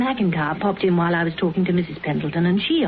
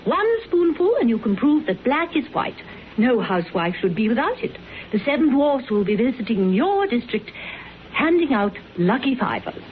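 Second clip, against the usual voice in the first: detergent saleswoman pitch; 2 semitones higher than usual. Pretend. Paula rehearses her door-to-door detergent pitch for Tinker, hammed-up ad voice. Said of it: "What are you supposed to do at Elgin Avenue?".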